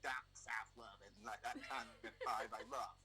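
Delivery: put-on American Southern accent. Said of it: "Is that your American accent?".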